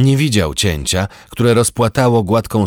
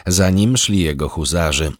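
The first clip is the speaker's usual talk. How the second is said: plain reading voice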